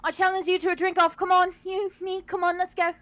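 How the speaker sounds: loud, high, insistent dare; boisterous challenge. Acted. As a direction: goad a stranger into a drink-off. Character challenges stranger to drink-off.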